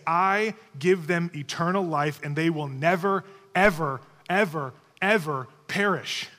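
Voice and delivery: NEVER, EVER, EVER hit hard, slowing into PERISH; emphatic. Retold or imitated. Preacher quoting Jesus' promise to his sheep, emphatic. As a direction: punch NEVER and each repeated EVER with separate weight.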